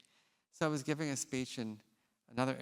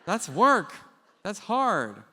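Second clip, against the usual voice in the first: laughing aside; 8 semitones higher, 12 dB louder, much slower than usual. Real, not acted.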